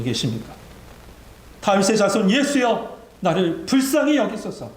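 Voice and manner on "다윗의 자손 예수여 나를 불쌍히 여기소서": high-pitched pleading call; acted cry for mercy from the heart. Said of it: "마음의 비명을". (높은 음으로 부르짖는 간청)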